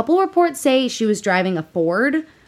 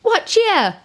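a bad try at a Scottish accent; failed Scottish accent; 12 semitones higher than usual. Shown as a demonstration. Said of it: "No, that's just English".

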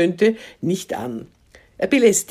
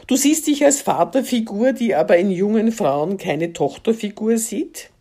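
the repeated question pitched much higher, in disbelief; incredulous repeat; 4 semitones higher than usual. Acted. Woman mocking the man's claim, incredulous and higher. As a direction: throw his own words back at him, astonished.

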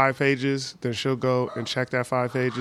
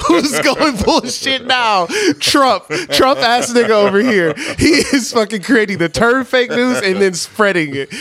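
mock Trump; 9 semitones higher, 8 dB louder than usual. Mocking Trump in raised voice.

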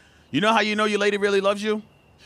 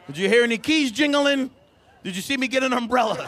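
exasperated; 4 semitones higher than usual. Retold or imitated. Exasperated reply to girlfriend.

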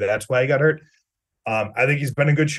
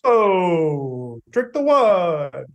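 mock posh; 4 semitones higher, 3 dB louder, much slower than usual. Mocking partner's wine remark.

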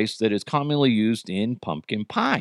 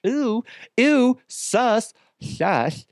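mock disgust; 9 semitones higher, much slower than usual. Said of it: "Be like".

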